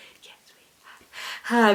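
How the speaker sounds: whispered delivery. Answering the leader's call in a voice game, whispering. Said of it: "Have you got your whispering voice?".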